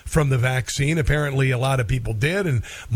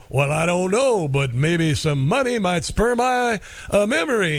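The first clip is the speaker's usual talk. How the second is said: higher, slow, coy hustler angling for money; sly Huggy Bear; 4 semitones higher than usual. Retold or imitated. Huggy Bear hints to the cops that money helps, sly and higher. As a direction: play it sly, fishing for a bribe. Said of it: "Huggy'd go".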